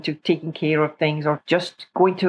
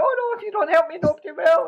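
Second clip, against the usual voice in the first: mock pleading; 10 semitones higher, faster than usual. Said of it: "expected the person to break down crying".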